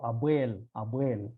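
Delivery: "abuel" with a heavy, dark emphatic b and l. Shown as a demonstration. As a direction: make "abuel" sound Arabic with thick emphatic consonants. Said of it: "they are emphatic".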